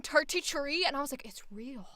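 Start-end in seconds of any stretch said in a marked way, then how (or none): 0.0-0.8 "turty tree" with hard t for th; imitated Irish "turty tree", t sounds for th; Dublin pronunciation. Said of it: "they were saying". 1.2-1.9 hushed, voiceless aside; retold stunned whisper; awed whisper. Retells awed reaction.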